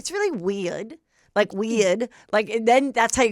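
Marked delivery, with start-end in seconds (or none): 0.0-1.0 softer Australian "weird" with no R; Australian accent. Shown as a demonstration. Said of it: "I had to do an Australian accent". 1.5-2.1 WEIRD in an Australian accent, R dropped. Shown as a demonstration. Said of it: "I have to say weird".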